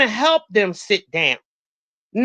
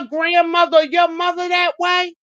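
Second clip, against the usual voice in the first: raised, higher voice, scolding rude youngsters; indignant scolding; 4 semitones higher than usual. Real, not acted. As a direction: shout it down at them like an outraged elder. Scolding young people on the bus.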